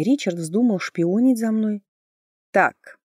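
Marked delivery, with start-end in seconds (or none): 2.5-3.0 a touch of sternness; stern interjection. A narrator's reading. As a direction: cut in with mild severity. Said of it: "сурово сказала Оливия". (суровое «так»)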